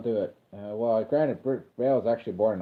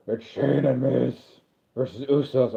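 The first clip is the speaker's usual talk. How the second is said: Christian Bale Batman. Retold or imitated. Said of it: "I'll do it in Christian Bale voice".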